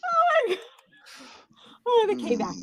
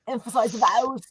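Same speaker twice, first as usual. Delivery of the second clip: attempted Australian accent; 4 semitones lower, 3 dB quieter than usual. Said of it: "you're just sounding like Arnold".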